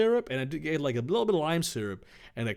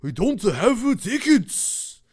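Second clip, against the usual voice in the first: a hint of a louder henchman voice; worried question, lightly put on; lightly voiced cat henchman; 9 semitones higher, 7 dB louder, slower than usual. Kit Kat worried.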